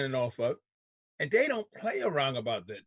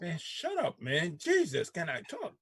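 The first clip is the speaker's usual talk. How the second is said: higher, jokey shut up, jumping up on Jesus; mock exasperated; 5 semitones higher than usual. Real, not acted. Host playfully tells interrupting co-host to shut up, mock exasperated. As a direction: playfully cut off the heckler.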